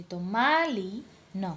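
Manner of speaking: માલીન said slowly, marking ઈન; slow teaching demo. Shown as a demonstration. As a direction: stretch માલીન. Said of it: "ઈ નો ઉચ્ચાર કરી અને ન".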